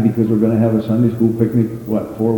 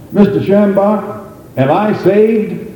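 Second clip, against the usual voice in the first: anxious questioner; 9 semitones higher, slower than usual. Retold or imitated. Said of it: "A man came to R W Shambach".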